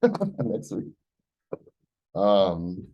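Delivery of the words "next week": laughing. Real, not acted. Laughing at own deadline.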